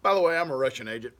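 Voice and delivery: quick, loud, offhand blurt; breezy mock confession. Telling the FBI he's a Russian agent, quick and loud. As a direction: toss it out like it's nothing.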